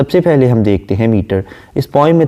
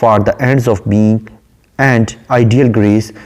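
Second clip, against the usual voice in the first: slow, measured poem reading; unhurried English verse reading; poem recitation; much slower than usual. Shown as a demonstration. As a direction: recite the line slowly, savouring it. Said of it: "बयान करती है".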